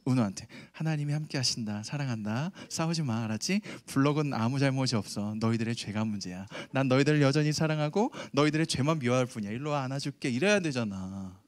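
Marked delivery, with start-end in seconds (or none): 0.7-10.3 gentle parent. Retold or imitated. Preacher voicing the patient father he should be, gently. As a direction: calmly soothe the kids, lightly voiced. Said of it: "사랑해주고 참아주고".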